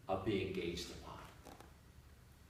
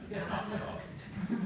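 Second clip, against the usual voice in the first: teasing whisper; 11 semitones higher, slower than usual. Real, not acted.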